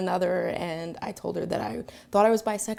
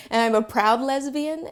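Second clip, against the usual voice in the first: louder and slow, "proud lesbian" stressed; with pride; 5 semitones higher, 7 dB louder, slower than usual. Real, not acted. Woman proudly declaring herself before the neighbors. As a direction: declare "I'm a proud lesbian" slowly and firmly. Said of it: "say it with pride and conviction".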